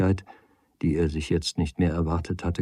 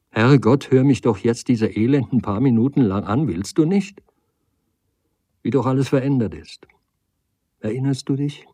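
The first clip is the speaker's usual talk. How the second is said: higher, pleading exasperated woman; exasperated lady; 6 semitones higher, 6 dB louder than usual. Acted. Lady begs Nagel for a few minutes, exasperated. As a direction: plead with impatient, wounded urgency.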